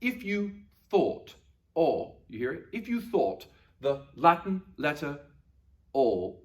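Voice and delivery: careful, lightly put-on British accent. Shown as a demonstration. Teacher helping pupils hear Latin O, British accent. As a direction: say it like a British person, rounded "thought" and "O". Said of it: "say this like a British person".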